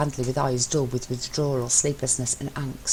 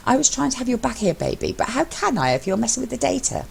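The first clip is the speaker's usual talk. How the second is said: higher, frustrated pleading; Mello, worried; 7 semitones higher than usual. A narrator's reading. Mello pleading with anxious husband, higher and frustrated. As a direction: make him see you were worried.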